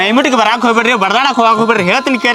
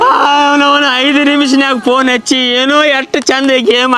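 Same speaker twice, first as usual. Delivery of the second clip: crying. Acted. Man cries over lost money.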